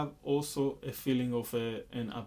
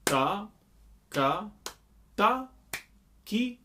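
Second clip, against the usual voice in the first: ta and ki lifted much higher as upbeats; 6 semitones higher, 4 dB louder, slower than usual. Shown as a demonstration. Teacher showing ki as another upbeat. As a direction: pop ta and ki up high and light. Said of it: "ki, will also be an upbeat".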